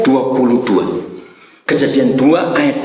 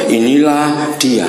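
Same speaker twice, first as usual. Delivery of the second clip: unenthusiastic demo; 2 semitones lower, slower than usual. Shown as a demonstration. Preacher mocks how Adam would never greet Eve, unenthusiastic. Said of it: "Nggak enak sekali itu".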